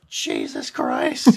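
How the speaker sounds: slow drawn-out mock scream, low and loud; retold scream. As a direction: imitate a panicked passenger screaming. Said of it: "the woman next to me screams".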